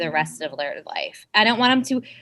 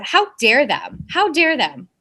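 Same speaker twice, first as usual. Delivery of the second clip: indignant sass, higher on the repeat; sassy; 3 semitones higher than usual. Real, not acted. Scolding those who overwork her friends, sassy. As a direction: say it with sassy outrage. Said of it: "She's sassy".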